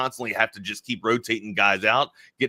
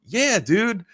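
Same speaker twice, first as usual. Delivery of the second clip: high, louder, laughing through the words; laughing disbelief; 8 semitones higher, 5 dB louder than usual. Retold or imitated. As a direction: exclaim it through a laugh, pitched up. Retelling his amazed reply, laughing.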